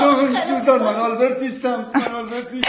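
high-pitched, repeated dream protest; talking in sleep. Acted. Father denying he is Albert, high nightmare cries. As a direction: deny it desperately, still asleep.

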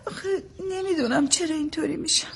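soft, tearful helplessness. Acted. New mother admitting she can't explain her crying, tearful. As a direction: answer quietly, close to tears.

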